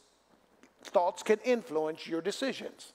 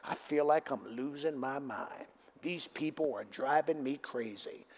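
quieter, lower, weary mock complaint; mock worldly complaint; 4 semitones lower, 4 dB quieter than usual. Preacher mocks the congregation's defeated talk, softly weary. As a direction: sigh it out like a defeated person. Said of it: "Stop saying things that the world says".

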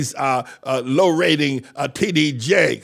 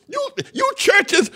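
high, slow shout; the preacher calling out the churches, shouting; preacher's cry. Acted. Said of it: "preaching, stretched shout".

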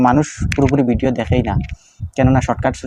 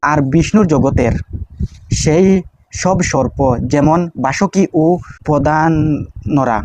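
prayer recitation; 2 semitones higher, slower than usual. Shown as a demonstration.

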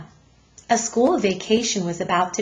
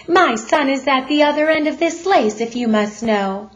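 higher and louder, sharply indignant; 5 semitones higher, 4 dB louder than usual. Acted. Mother tells off policeman, sharp and indignant. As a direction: put him in his place. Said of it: "Missus Lambchop said sharply".

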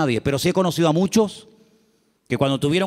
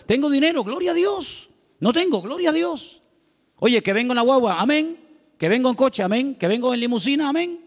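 high, gushing "gloria a Dios" and "amén"; mock gushing believer; 5 semitones higher than usual. Pastor mimics a churchgoer who says amen to everything, high and gushing. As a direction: play a churchgoer praising God at every turn, pitched up high.

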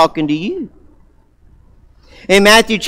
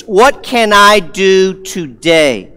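slow, thoughtful question; slower than usual. Shown as a demonstration. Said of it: "Maybe things like this".

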